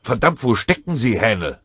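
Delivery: sergeant's cursing holler; impatient shout. A narrator's reading. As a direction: yell for your missing man. Sergeant calls for hidden soldier.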